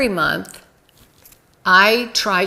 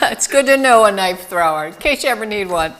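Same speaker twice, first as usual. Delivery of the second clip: talking through giggles; laughing; 3 dB louder, faster than usual. Real, not acted. Joking about knife thrower friend.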